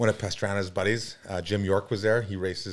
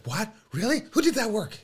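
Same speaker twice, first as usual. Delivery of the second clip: higher-pitched mock astonished questions; amazed; 12 semitones higher than usual. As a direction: play her as pleasantly astonished. Acts out girl's amazed reaction.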